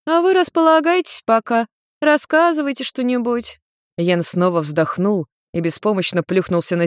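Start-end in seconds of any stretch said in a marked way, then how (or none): 0.1-3.6 high, welcoming tipsy mother voice; mother settling her son and his girl; hostess mother. Acted. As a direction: welcome the guests like a tipsy mum. Nariko hosting guests.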